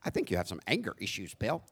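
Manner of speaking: light mock of a polite white wife, soft and quick; a touch of a prim, mild white voice; gently hammed-up corny white voice. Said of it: "my corny white voice".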